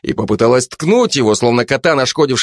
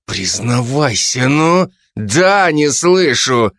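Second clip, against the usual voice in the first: higher, pushy detective woman; Zhanna's voice; 4 semitones higher, much slower than usual. Acted. Жанна давит на Кулебяку, напористо и выше. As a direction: lean on him, mock-polite and suspicious.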